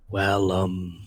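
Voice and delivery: lightly put-on Northern Irish shopkeeper; Northern Irish accent. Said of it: "it's a Northern Irish accent".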